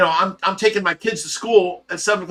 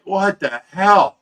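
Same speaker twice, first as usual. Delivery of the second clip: retold disbelief; 2 semitones higher, 3 dB louder, much slower than usual. Stunned reaction to confession, retold.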